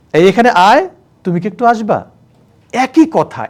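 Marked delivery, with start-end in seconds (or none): 0.1-0.9 curt call to servant. Shown as a demonstration. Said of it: "tone change হয়ে যাচ্ছে". 1.2-2.1 sweet to wife. Shown as a demonstration. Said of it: "tone change হয়ে যাচ্ছে".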